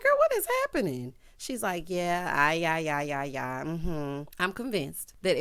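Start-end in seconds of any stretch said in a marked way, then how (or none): 0.0-1.1 high squeal of disbelief; baffled. Retold or imitated. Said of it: "I'm like". 1.9-4.2 nonchalant. Retold or imitated. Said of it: "just as nonchalantly as she pleases".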